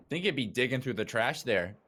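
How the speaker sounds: teasing mock Canadian accent; Canadian-sounding impression. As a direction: imitate a friend's Canadian-style accent. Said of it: "That was my impression of you".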